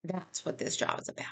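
fighting back real tears on the words; choked up. Real, not acted. Realtor to viewers, overcome and choked up. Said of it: "Let me regroup a second".

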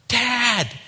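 loud, high, drawn shout; urgent full-force calling out; ear-splitting cry. Acted. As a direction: bellow for your father. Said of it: "I'd blow your ears off".

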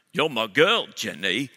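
a light, playful hint of a slow Southern simpleton; Forrest Gump. Husband teasing his wife, lightly voiced Forrest Gump impression. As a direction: tease her, lightly doing a movie drawl. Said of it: "I'll speak to her in the voice of Forrest Gump".

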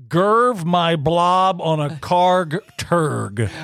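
babbling nonsense. Retold or imitated. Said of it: "Or this, Jim".

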